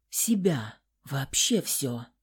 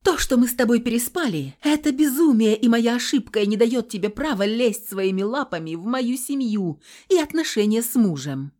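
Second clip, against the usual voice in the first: higher, louder indignant scolding; angry rebuke; 5 semitones higher, 5 dB louder than usual. A narrator's reading. Heroine jabbing Nikolai in the chest, loud rebuke. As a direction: put him in his place. She scolds him angrily.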